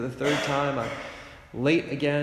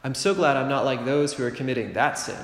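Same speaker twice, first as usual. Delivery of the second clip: smug self-righteous. Pretend. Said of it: "rather than feeling all full of ourselves".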